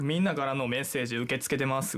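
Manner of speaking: relaxed, colloquial Kansai intonation; casual Kansai accent. Shown as a demonstration. Offering a looser Kansai version of the podcast line, casual Kansai accent. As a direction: make it an everyday Kansai line. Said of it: "もっと変えるなら".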